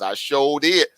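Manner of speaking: put-on drawn-out Southern accent; light mock-Southern drawl. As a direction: say it in a playful Southern voice. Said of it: "in my Southern voice".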